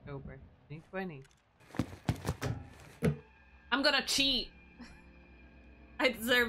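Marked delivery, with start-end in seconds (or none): 3.7-4.5 higher, louder gleeful cry; excited exclamation. Real, not acted. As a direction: announce it with giddy glee. Gives up on a puzzle.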